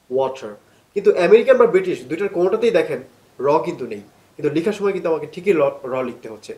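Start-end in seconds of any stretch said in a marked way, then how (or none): 0.1-0.5 water in an American accent, ওয়াটার with a flapped t. Shown as a demonstration. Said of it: "American স্টাইলে বলি". (American উচ্চারণে ওয়াটার)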